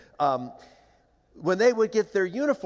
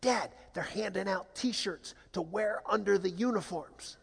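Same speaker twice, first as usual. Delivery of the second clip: lightly voiced earnest child, slow and softer; naive, hopeful boy; 2 semitones higher, 5 dB quieter than usual. Young son reassuring his dad about T-shirts, naive and hopeful. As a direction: explain it slowly with innocent hope. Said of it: "darling, naive, hopeful Jesse".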